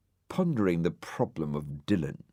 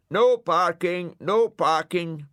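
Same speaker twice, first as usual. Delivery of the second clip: loudspeaker voice; 12 semitones higher, 7 dB louder, slower than usual. Acted. Loudspeaker warns Ermyntrude.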